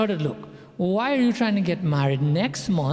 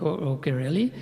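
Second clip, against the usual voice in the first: unimpressed; 5 semitones lower than usual. Retold or imitated.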